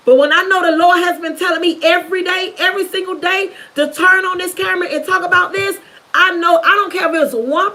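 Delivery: rising, emphatic testimony, a burst of a shout; fervent testimony. Real, not acted. To her viewers about God's daily prompting, fervent and emphatic. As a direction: preach it out with real conviction.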